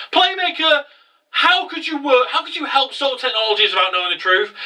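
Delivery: high-pitched indignant outburst; pissed off. Retold or imitated. Revolver confronting Playmaker over helping Soul Technologies, pissed off. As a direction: demand an answer, imitating an angry rival. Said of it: "Revolver is fucking pissed".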